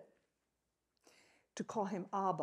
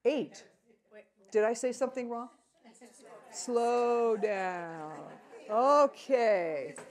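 louder, laughing at his own slip; laughing aloud; 4 semitones higher, 7 dB louder than usual. Real, not acted. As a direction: joke through laughter about starting over. Congregation laughs, preacher jokes.

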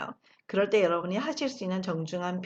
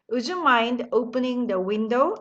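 very slow, every word laid out; slow model sentence; much slower than usual. Shown as a demonstration. Teacher modelling the phrase slowly for the class. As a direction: spell it out slowly for learners to copy. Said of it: "이렇게 만드셨죠".

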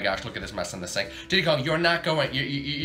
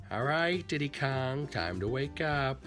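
soft, slow wake-up call; gentle soft wake-up; 6 dB quieter, slower than usual. Acted. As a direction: coax him awake gently. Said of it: "I'll do it gently".

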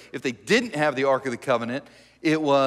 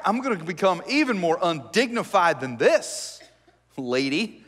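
laughing taunt; 3 semitones higher than usual. Retold or imitated. David taunting his wife.

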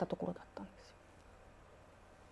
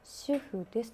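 slow, softer monotone mumble of a ghost; eerie muttering; 6 dB quieter, much slower than usual. Retold or imitated. Ghost woman mumbling to herself in the lift, eerie slow. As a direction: recite it like a trance, slowly. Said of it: "なんかブツブツブツブツ".

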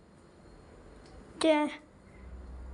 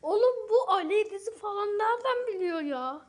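mock crying; 2 semitones higher than usual. Mock crying at the correct guess.

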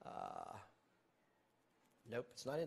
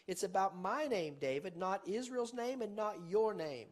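emphatic God voice; 5 semitones higher, 5 dB louder than usual. Acted. Preacher voicing God, emphatic.

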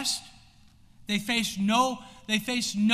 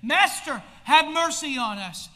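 raised, pleading call for mercy; 3 semitones higher, 5 dB louder than usual. Acted. Lepers calling out to Jesus for mercy, raised voice. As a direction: call out higher and louder to be heard. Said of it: "They call out to Jesus".

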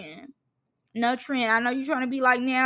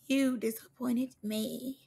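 slow, soft, at normal pitch; solemn disappointment; 8 dB quieter, slower than usual. Acted. Reactor telling off Biggie over fireworks, slow subdued disappointment. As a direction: let it sink in slowly and quietly. Repeats the scolding lower, slower.

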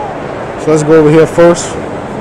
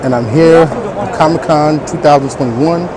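muffled through a face mask; talking behind a mask; 3 semitones lower, 4 dB quieter than usual. Real, not acted. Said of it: "Don't mind the mask".

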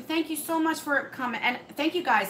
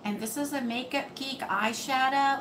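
flat, toneless presenter voice; monotone. Retold or imitated. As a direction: read it with no pitch movement. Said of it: "I was very monotone".

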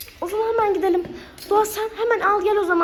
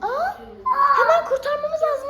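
surprised; 7 semitones higher, slower than usual. Pretend. Pretend rabbit found with child.

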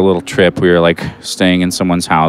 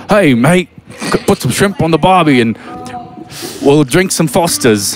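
higher-pitched mock Australian redneck; Australian redneck accent; 8 semitones higher, slower than usual. Guest demonstrating an unsexy Australian accent for the hosts, mock Aussie redneck. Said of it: "like, an Australian, like, redneck or something".

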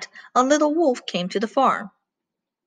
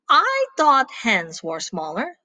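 puzzled; 4 semitones higher, slower than usual. Acted. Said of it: "The little wolf was surprised".

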